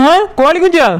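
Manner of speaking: a sudden shocked outburst; startled cry. Acted. Neighbour hears the chicks story, shocked. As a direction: jolt up at the news.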